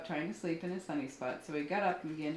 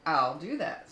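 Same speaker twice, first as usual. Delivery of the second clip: mock screech; 5 dB louder, slower than usual. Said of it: "screeched the grouchy ladybug".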